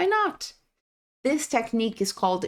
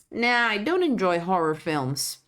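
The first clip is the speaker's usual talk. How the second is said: "don't" stressed, tune falling to "films"; falling answer. Shown as a demonstration. Teacher modelling a casual negative reply, falling. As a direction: let the answer settle down. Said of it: "Attention to the intonation".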